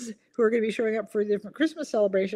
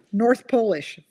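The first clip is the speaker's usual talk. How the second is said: louder, laughing through the answer; punchline with a laugh; 3 semitones higher, 5 dB louder, slower than usual. Real, not acted. Host reading the punchline to viewers, laughing. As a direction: deliver the pun and crack up.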